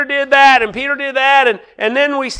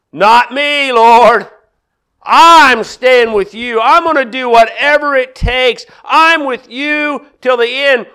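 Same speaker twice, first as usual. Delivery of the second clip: Peter's firm vow. Retold or imitated. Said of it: "hearing Peter's voice as he tells the Lord".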